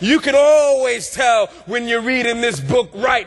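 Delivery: rhythmic preaching building to a cried-out peak; preacher in full flow, stretching key words; impassioned preaching. Real, not acted. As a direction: hammer each repeated phrase, rising in fervor.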